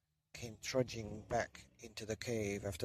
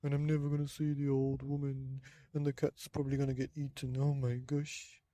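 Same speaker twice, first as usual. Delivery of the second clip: put-on terrified old man. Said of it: "He thought".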